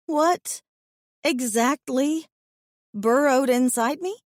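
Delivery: high alarmed question; horrified. A narrator's reading. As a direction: push it up, horrified.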